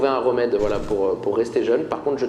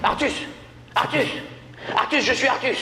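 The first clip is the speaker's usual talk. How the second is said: future self calling; 9 semitones higher than usual. Acted.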